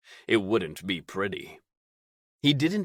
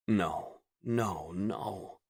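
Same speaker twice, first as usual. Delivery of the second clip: fading whisper; 6 dB quieter, much slower than usual. Acted. Inner dread, fading.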